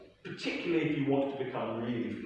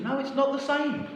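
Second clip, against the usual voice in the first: retold firm denial; 3 dB louder than usual. Teacher arguing with Pascal.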